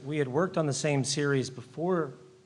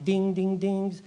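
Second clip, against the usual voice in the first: imitated light dings; 5 semitones higher, slower than usual. Imitates little light sound effects.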